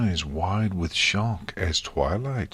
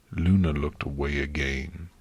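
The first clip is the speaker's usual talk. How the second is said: plain reading voice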